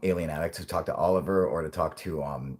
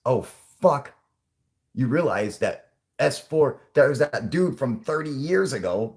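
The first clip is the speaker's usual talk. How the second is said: panicked official; 5 semitones higher, 3 dB louder than usual. Pretend. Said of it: "they're probably like".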